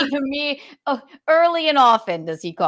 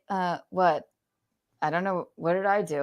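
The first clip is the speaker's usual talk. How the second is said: mock clueless; 3 semitones lower, 7 dB quieter than usual. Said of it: "ambivalence to be like".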